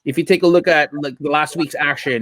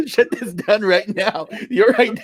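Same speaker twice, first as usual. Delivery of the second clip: put-on Russian accent; 4 semitones higher than usual. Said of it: "I can't do a Russian accent".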